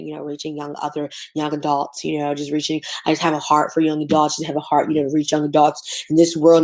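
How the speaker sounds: mocking someone claiming God called them; mock pious spiel.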